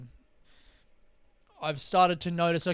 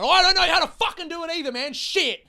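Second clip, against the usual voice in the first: loud, very high, fast screamed rant; angry guide meltdown; 13 semitones higher, 8 dB louder than usual. Acted. Imagined guide in the corner losing it, angry screaming. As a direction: lose it completely, yelling in frustration. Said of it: "want him to be a little bit angry".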